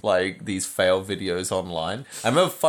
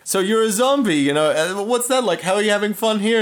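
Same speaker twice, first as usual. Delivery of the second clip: reporter voice; 10 semitones higher, 4 dB louder than usual. Retold or imitated. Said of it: "The news reporter goes to him like".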